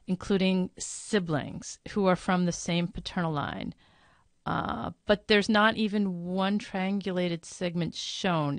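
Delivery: measured read-out with drawn-out phrases; slow reading. Real, not acted. Host reads Marla's long question aloud, slowly. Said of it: "I'm gonna read this slowly".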